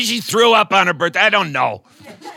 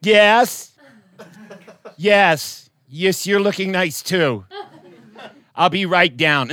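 chatty teacher; 3 dB louder, much slower than usual. Retold or imitated. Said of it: "talked to the intercom like it was a real person".

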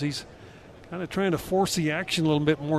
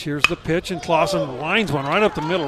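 excited call; 5 dB louder than usual. Real, not acted. Big hit called live.

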